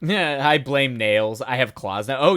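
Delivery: usual speaking voice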